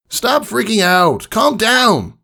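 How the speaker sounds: slow, high, firm call; Rainbow Dash voice. A narrator's reading. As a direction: firmly settle the panicking filly. Dash tells filly to calm.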